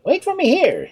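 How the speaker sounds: calling out. Acted. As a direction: call down to the shark below. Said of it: "he called out to the shark".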